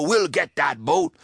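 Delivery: rally the crew like a greedy pirate; pirate captain. Acted. Pirate Joe urging his crew on, eager and high. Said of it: "said Joe".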